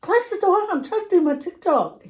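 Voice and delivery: high yell to close the door; snapping at kids. Retold or imitated. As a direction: shout it across the house. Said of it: "and I go".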